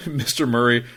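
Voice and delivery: high, loud, hammed-up indignant bellow. Boy bellows at Mister Murray about the child, mock indignation. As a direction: act out a protest building to a huge shout. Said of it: "Calvin Bella".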